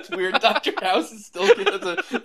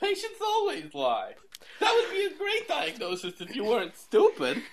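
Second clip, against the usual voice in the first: House impression; 4 dB quieter than usual. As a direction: drag it out like a smug doctor. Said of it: "I've been doing it too".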